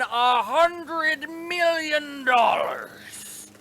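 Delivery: loud rising excited yell; excited shout. Real, not acted. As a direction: shout it out with glee. Excited about prize money.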